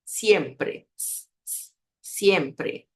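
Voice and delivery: siempre with an isolated hissed s between; pure S. Shown as a demonstration. Teacher modelling the letter S, pure S. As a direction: say siempre with a voiceless s. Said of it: "soa sempre como S".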